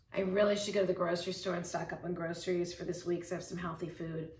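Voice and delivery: rushed, weighed-down should voice; guilty should. Shown as a demonstration. Coach acting out the guilty should, fast and heavy. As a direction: rattle off the chore like an obligation. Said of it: "So see how that changes things".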